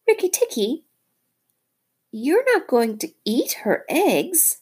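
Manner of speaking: very high, alarmed bird voice; shocked little bird. Acted. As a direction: gasp it out like a startled bird. Darzee the bird talking.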